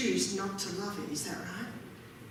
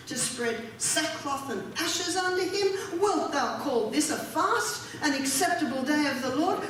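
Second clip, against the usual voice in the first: raised, indignant rebuke; 3 semitones higher than usual. Acted. Preacher voices God rebuking the fasters, indignant. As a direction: voice God's indignant challenge to the people. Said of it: "he's indignant".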